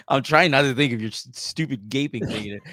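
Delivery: giggling through the words; fighting back laughter; trying not to crack up; laughing. Real, not acted. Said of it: "I can't talk right now".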